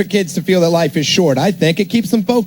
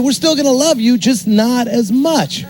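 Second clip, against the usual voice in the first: mock reassuring; 4 semitones higher, slower than usual. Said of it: "I would tell him, I said".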